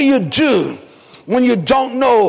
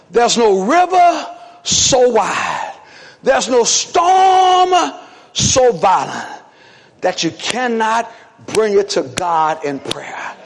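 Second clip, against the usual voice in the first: slow preaching cadence; slower than usual. Acted. Preacher telling church about prayer, slow and drawn out.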